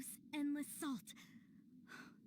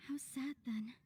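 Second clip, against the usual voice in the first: a hushed, sorrowful aside; sad whisper; slower than usual. Acted. Whispering to Zhongli about the lost haven. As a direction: breathe it out as a whisper.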